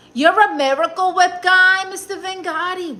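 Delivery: high, loud mock-shocked outburst; surprised exclamation. Real, not acted. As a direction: gasp it out, scandalized. Reacting to viewer's sandwich taste.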